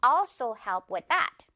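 slow phrase, also front-heavy; stress on AL of also. Shown as a demonstration. Teacher models the rest of the sentence, slow front-stressed also. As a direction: stretch the al of also, measured pace. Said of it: "어 부분의 강세".

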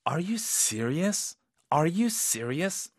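high rising, slow disbelief; can't quite believe it, ask it slowly; disbelieving. Shown as a demonstration. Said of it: "믿기 어려운 상황에서는 이런 톤으로". (믿기지 않는 말투)

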